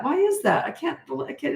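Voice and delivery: ordinary delivery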